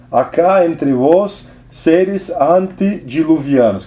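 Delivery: slow, deliberate Portunhol reading; measured recital of literary prose. Acted. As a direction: read the passage aloud, lingering on each phrase. Resumes reading the novel.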